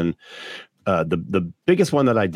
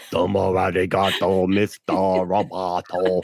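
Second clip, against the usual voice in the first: robot voice. Retold or imitated. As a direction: say it like a machine. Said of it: "he's really good at the robot voice".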